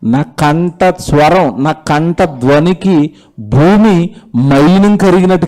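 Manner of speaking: lightly voiced God speaking slowly; preacher quoting God, slow and solemn. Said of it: "Bible దేవుడు ఏమన్నాడు తెలుసా?".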